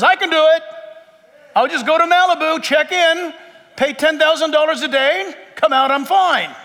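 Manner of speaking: a touch of the smug self-reliant man; cocky self-reliance. Retold or imitated. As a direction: brush it off like you've got it handled. Confident flesh person voiced.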